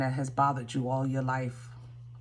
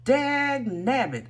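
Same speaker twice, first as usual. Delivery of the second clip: mock curse; 8 semitones higher, 4 dB louder, slower than usual. Real, not acted. Mock curse at a surprising card.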